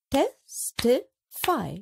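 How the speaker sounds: "testify" stretched slowly, syllable by syllable; slow and drawn out. Shown as a demonstration. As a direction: draw out "testify" for counting. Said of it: "a few more examples".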